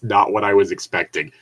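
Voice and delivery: quoting through laughter; reading the line while cracking up; laughing. Real, not acted. Host rereads the comment, laughing. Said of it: "to the sentence".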